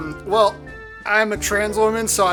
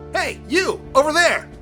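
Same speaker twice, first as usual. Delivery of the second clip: standard hero voice; 9 semitones higher, 5 dB louder than usual. Acted. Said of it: "Gonna give him standard hero voice".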